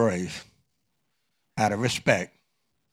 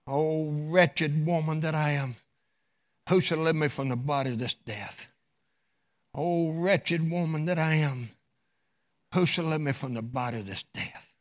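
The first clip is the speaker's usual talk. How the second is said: wretched lament; 6 dB quieter than usual. Acted. Worn-out wife laments her misery, soft and mournful. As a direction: moan it out like a worn-out soul. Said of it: "she's saying something".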